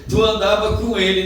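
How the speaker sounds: high, loud accusing voice; loud accusation. Acted. Accuser confronting Peter, loud and accusing. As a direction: expose him before everyone.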